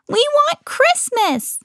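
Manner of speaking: very high, slow troll wail. A narrator's reading. Trolls demanding Christmas, slow high wail. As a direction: stretch it out, pleading. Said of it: "they wailed".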